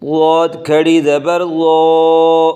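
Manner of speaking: لاد thick and heavy, لو with rounded o; heavy zwad. Shown as a demonstration. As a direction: fatten the letter. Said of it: "لاد کو موٹا کر کے پڑھیں". (لاد کو موٹا کر کے)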